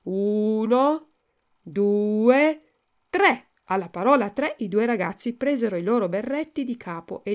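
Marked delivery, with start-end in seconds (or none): 0.0-3.5 loud, drawn-out count rising to the last number. A narrator's reading. Pinocchio counts for both friends to throw off caps, loud. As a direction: count out boldly for a dare. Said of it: "cominciò a contare a voce alta".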